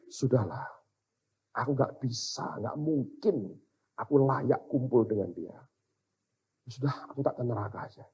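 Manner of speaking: quiet resignation. Retold or imitated. Preacher retells giving up on heaven, quietly resigned. Retold giving up before God.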